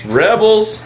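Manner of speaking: playful high cheer. Acted. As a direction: call it out like a toast. Mock cheers toast.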